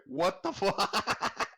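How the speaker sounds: slow, laughing disbelief. Real, not acted. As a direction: laugh mid-word in shock. Reacting to funny notification.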